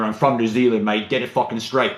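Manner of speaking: lightly voiced New Zealander setting the record straight; mock annoyed New Zealander. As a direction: put on a light grumpy Kiwi, mate. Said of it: "what the difference is between a New Zealander".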